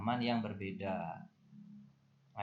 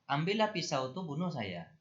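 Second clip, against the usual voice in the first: a higher, louder mock of an angry parent; 5 semitones higher, 5 dB louder than usual. Teacher voicing an angry parent scolding a child, mock fury. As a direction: throw it out like a furious parent daring the child. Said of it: "Misalnya orang tua marah gitu".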